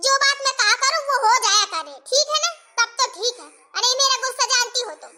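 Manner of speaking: acted cross ultimatum; a touch of temper, not shouted; mildly angry. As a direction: lay down the law to your mother. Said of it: "कितना गुस्सा कर रही हो".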